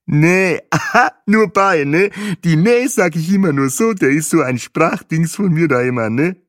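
hoch, laut, breit lächelnd begrüßend; begrüße die Gruppe mit breitem Lächeln; fröhlicher Reiseführer. A narrator's reading. Guide laughing. (der Reiseführer begrüßt die Touristen fröhlich)

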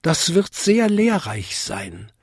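high, polite bell voice; Vinzi tinkling. A narrator's reading. Little bell answers the big one, tinkling. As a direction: keep it high like a small chime. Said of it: "bimmelte Vinzi".

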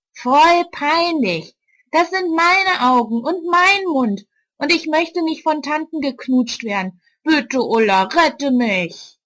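put-on high, pleading young girl. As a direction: beg like an upset kid. Marsha, a girl, pleads with Ulla.

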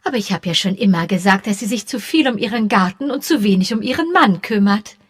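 I always said so, smugly; a hint of a self-satisfied old maid; smug gossip.

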